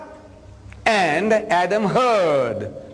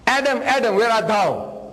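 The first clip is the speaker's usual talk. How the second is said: raised voice calling a name, then easing off; 3 semitones higher than usual. Retold or imitated. God searching the garden calls for Adam, mild mock shout. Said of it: "So he shouts".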